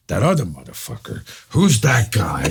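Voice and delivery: mock indignation, building in volume. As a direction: imitate a star working himself up. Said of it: "all of a sudden he gets wound up".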